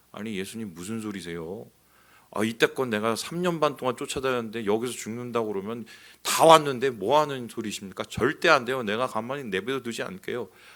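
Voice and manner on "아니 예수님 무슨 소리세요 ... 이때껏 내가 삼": ordinary delivery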